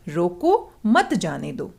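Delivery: "रोको", a break, then "मत जाने दो" as one group; pause after रोको. Shown as a demonstration. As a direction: hold off "मत" until after the pause. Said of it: "पहले वाक्य में हमने रोको के पीछे कोमा लगाया है".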